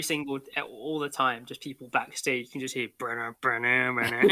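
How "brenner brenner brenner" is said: mimicking a faint background riff; mouthed instrumental jingle; imitated music sting. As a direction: vocalize a little repeated sting. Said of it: "you just hear a faint".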